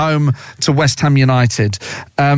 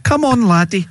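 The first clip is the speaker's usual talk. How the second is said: put-on old lady voice; 5 semitones higher than usual. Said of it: "she said to the dog".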